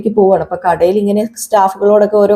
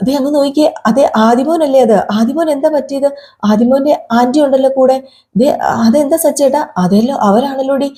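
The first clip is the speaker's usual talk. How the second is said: raised, alarmed voice of surprise; higher-pitched startled wife; surprised exclaim; 5 semitones higher than usual. Retold or imitated. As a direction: call out as if just spotting the boy. Revathi spots injured Adi.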